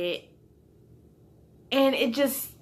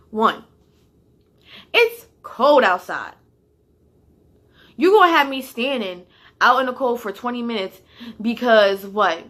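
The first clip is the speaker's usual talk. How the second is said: loud, indignant protest to the boss; heated back-talk about the cold; retold angry protest; 2 semitones higher, 6 dB louder than usual. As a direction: argue back hard, voice raised. Arguing back at her boss.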